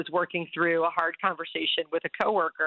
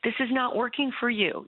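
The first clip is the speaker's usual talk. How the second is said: loving voice; 7 semitones higher than usual. Retold or imitated. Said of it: "this loving voice that's like".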